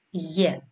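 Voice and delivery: γε as a single syllable "ye"; letter sound. Shown as a demonstration. Teacher contrasting it with epsilon, γε demonstrated as "ye". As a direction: set γε apart, a y glide into e. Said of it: "όμως προφέρεται ως".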